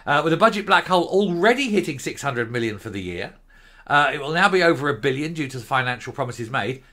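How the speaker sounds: reading the report aloud like a newsreader; formal news read with a touch of irony. Acted. Reads out the news item.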